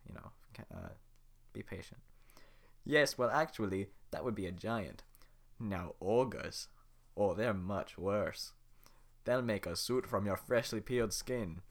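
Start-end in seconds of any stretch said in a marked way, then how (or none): 2.8-11.6 loud ogre voice, slow and menacing; Shrek voice. Acted. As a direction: lean into the Scottish ogre. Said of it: "nail the Shrek voice".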